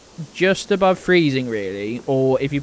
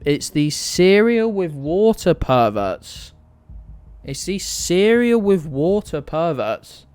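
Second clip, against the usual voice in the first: mock disgust; 3 semitones higher, slower than usual. Mock-outraged rant about cereal.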